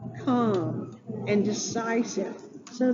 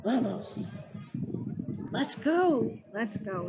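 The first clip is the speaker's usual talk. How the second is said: mock whiny boy. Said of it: "he started stomping his feet".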